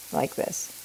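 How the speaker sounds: whispered aside, under the breath. Shown as a demonstration. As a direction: drop to a whisper as you show the cut. Cutting on an angle shown.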